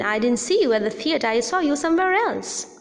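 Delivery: fall-rise on "see" and then spelling out the hidden meaning; fall-rise with implication. Shown as a demonstration. Teacher explaining the fall-rise meaning. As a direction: let "see" dip and rise, then add the rest. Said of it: "which means that there is something at the back of my mind".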